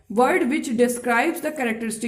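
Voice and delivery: spoken very slowly so students can write it down; a teacher dictating a definition to the class; slow dictation. Shown as a demonstration. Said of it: "adjective क्या होता है".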